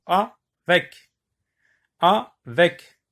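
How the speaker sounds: "Avec" said carefully as a-vec; clear syllables. Shown as a demonstration. Teacher repeating a word for the class to count. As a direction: sound out "Avec" in two beats. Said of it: "vous me dites de combien de syllabes".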